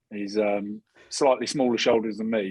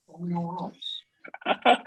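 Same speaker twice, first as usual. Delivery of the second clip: badly faked Irish lilt, higher pitched; terrible Irish accent; 7 semitones higher than usual. Player mocking his roommate as all right, terrible Irish accent. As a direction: put on a poor Irish accent. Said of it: "That was a terrible accent".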